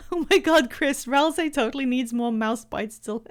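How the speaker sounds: put-on Valley Girl accent, breaking off; Catty. Telling Chris about Ralsei, Valley Girl on the edge of laughter. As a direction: start an American Valley Girl gush. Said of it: "what Catty sounds like".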